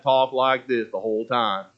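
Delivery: lightly put-on play-character voice; a hint of the weird stage voice. Shown as a demonstration. Preacher recalling his part in the play, lightly weird voice. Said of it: "that weird voice that I can't do".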